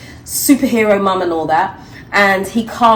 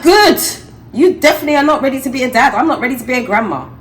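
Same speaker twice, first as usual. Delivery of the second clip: mock stern mum; 6 semitones higher than usual. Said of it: "I'm like".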